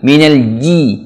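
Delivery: "ji" with J firmly pressed to palate; strong jim. Shown as a demonstration. Teacher showing learners the letter, firm "Minal ji". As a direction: press the tongue middle hard on J in "ji". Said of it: "Jim ini kuatkan".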